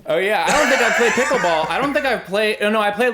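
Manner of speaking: giggling through the words; laughing. Real, not acted. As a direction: laugh while you talk. Laughing while speaking.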